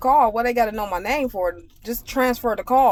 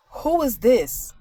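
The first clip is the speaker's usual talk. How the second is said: slow, higher, curt demand; rude demand; 4 semitones higher, much slower than usual. Retold or imitated. Coworker calling the lab, curt and rude demand. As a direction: bark it like a rude caller. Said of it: "how I'm saying it, guys, is exactly how she called".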